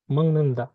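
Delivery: "মং নুন দা" with ng in place of g; nasalised pronunciation. Shown as a demonstration. Teacher giving learners the changed sound, nasalised pronunciation. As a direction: break up "মং নুন দা", humming the ng. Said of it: "এটার উচ্চারণ হবে".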